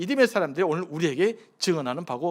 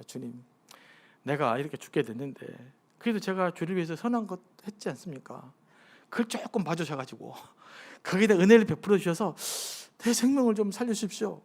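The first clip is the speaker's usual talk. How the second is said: pleading prayer, voiced. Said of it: "라고 기도한 겁니다".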